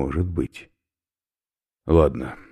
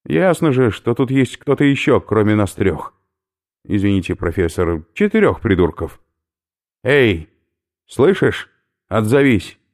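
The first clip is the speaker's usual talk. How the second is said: loud, higher gruff shouting into the dark; calling out; 7 semitones higher, 7 dB louder than usual. Acted. Oberführer calls out to unseen prisoner, loud gruff shout. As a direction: make the hidden one answer.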